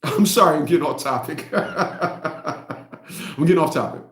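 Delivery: low, soft words through real chuckles; laughing. Real, not acted. Host apologizing for going off topic, laughing. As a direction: laugh helplessly while apologizing. Cracks up at his own digression.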